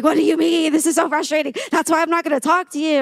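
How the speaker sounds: playful frustrated outburst; mock inner scream. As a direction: vent it as a mock rant, not truly yelling. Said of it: "inside I scream".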